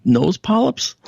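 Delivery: patient teasing the doctor with mock surprise. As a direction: play up the shock as a joke. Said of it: "You know, making a joke".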